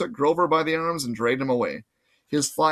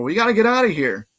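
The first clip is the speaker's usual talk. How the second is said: urgent; 7 semitones higher, 5 dB louder than usual. Acted. Urging Annabeth to leave.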